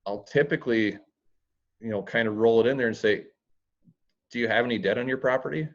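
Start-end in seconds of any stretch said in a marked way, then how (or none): 4.3-5.7 fast, breezy upbeat ask; casual cheerful debt question. Shown as a demonstration. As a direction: roll the question in casually and quickly. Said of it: "the tone in my voice is way different".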